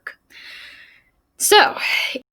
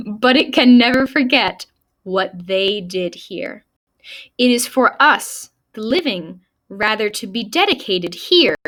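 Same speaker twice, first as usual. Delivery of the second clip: measured, solemn recitation with pauses; formal speech reading. Acted. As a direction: read it out like an orator, phrase by phrase. Reads the speech aloud.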